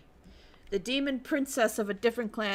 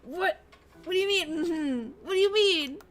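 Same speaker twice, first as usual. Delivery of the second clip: high, loud repeated disbelief; incredulous what; 6 semitones higher, 3 dB louder than usual. Real, not acted. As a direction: keep demanding what do you mean, pitched up and louder. Repeated outraged questioning.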